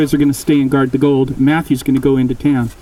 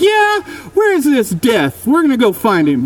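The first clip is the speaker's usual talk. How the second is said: rally the others, pitched way up; fired-up shout; 9 semitones higher than usual. Acted. Boys vowing to hunt down Death, shouting.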